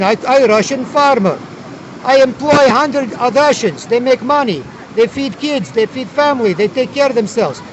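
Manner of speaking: slow broken-English Russian farmer; mock Russian farmer. Russian farmer answering the communist, slow and broken. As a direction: plead slowly like a proud Russian farmer.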